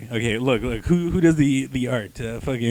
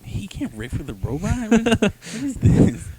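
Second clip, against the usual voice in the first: rising outraged quip, higher at the end; mock indignant Spider-Man; 9 semitones higher than usual. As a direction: whine it like a hero insulted. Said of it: "he's like".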